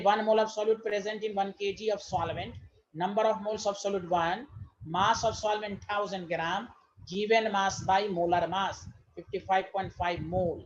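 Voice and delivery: very slow, word by word, for note-taking; spaced-out classroom dictation. Shown as a demonstration. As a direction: dictate each word so they can write it down. Teacher dictating definition slowly.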